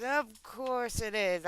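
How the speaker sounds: slowly drawn out at normal volume; slow, fully voiced repeat. Real, not acted. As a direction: stretch the words out aloud. Repeats the whispered aside aloud.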